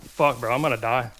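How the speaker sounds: losing it as health drops; panicking gamer. Real, not acted. Wolves attacking, nearly dying.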